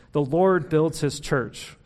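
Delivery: slow, deliberate, every word weighted; slow mantra. Shown as a demonstration. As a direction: set it down like a mantra to write down. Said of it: "a mantra that I've been preaching to myself".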